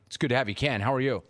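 tape playback of the call; the host's earlier call replayed on air. Real, not acted. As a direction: sounds like a recording played back. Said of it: "Let me play that back".

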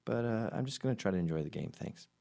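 polite refusal. Retold or imitated. Will Ferrell brushes off the PR head, high and quick. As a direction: dismiss her politely but firmly. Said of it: "And he goes".

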